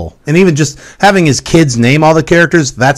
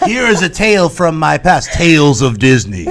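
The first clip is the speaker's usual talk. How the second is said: storyteller voice; 4 semitones higher, 3 dB quieter than usual. Pretend.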